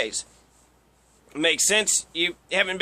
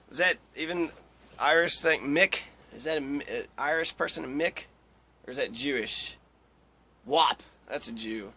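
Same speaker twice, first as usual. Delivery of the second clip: unsure, quiet; 5 semitones lower, 7 dB quieter than usual. Real, not acted. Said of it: "unsure muttering".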